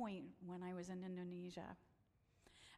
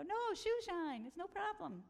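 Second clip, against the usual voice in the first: put-on insistent shoe shine boy; 9 semitones higher than usual. Boys insisting despite sandals.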